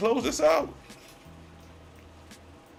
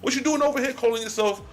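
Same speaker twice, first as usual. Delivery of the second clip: God as a street homie; 5 semitones higher than usual. Retold or imitated. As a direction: confront a friend who betrayed you. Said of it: "True God is asking".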